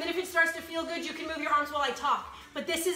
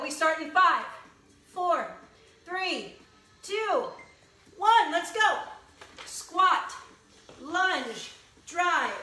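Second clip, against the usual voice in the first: coach calling moves; much slower than usual. Real, not acted. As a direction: call each move out to the class. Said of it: "coach calling out moves".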